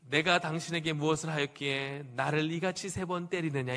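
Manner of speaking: lightly voiced donkey, measured and formal; mild scriptural donkey. Donkey asking Balaam why he beats it, measured and restrained. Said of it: "이렇게 했겠어요?".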